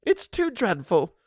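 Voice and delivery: high, slow, distressed housekeeper; crying out. A narrator's reading. Housekeeper protests to governess, distressed. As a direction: cry out against cruel words. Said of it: "cried Missus Gross".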